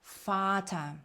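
Фата starting with a voiceless f; German Vater with an f onset; V read as F. Shown as a demonstration. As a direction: begin Фата with f, end on open "a". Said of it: "читається як звук".

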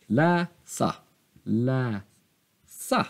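Läsa stretched, ending up on sa; repeated slow Läsa with rising second syllable; grave accent. Shown as a demonstration. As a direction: draw out Lä, then lift sa. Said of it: "det är grav accent".

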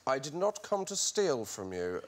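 low, soft, silly put-on actor voice; silly acting voice. Amateur auditioning as Bilbo for the presenter, silly acting voice. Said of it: "your voice went sort of silly".

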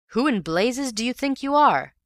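high, loud outraged demand; indignant demand. A narrator's reading. Ewbank demands angrily.

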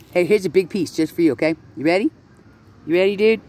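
high pet-talk voice; coaxing a duck. Real, not acted. Offering a duck some bread.

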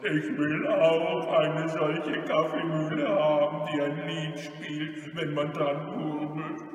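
greedy robber's growl; a touch of rough menace. Acted. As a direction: demand it gruffly. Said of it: "knurrte der Räuber Hotzenplotz".

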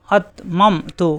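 আতমামতু spelled out very slowly with a hard stop on the hamza; slow drawn demo. Shown as a demonstration. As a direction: draw out আতমামতু syllable by syllable. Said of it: "এই যে হামজা সাকিন শক্ত". (খুব ধীরে আতমামতু)

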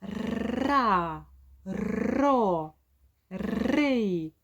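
encouraging prompt, then ра, ро, ри; coaxing a child. Retold or imitated. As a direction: lead the child through ра, ро, ри. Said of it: "і кажемо". (підбадьорливо, ніби з дитиною)

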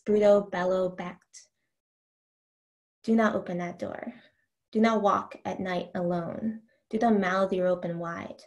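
measured, deliberate poetry recital; reading verse to an audience; poem reading. Acted. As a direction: let each image land as you read. Reads a poem aloud.

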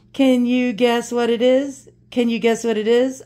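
drawn-out slow teasing question. Real, not acted. Teasing viewers about the mystery box, slow and playful. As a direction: stretch it out to tease them. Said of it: "I'm gonna tease you".

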